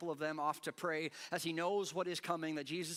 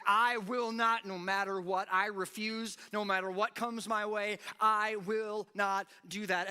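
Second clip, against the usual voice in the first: stubborn refusal; 6 semitones higher, 8 dB louder than usual. Retold or imitated. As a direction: dig in and refuse anything. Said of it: "you're like".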